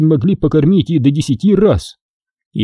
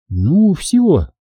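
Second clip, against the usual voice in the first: put-on older woman voice; 6 semitones higher than usual. Old woman leaves house.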